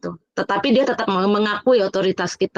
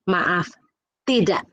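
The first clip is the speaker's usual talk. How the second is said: firm polite no; 3 semitones lower, much slower than usual. Retold or imitated. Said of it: "Saya tetap bilang".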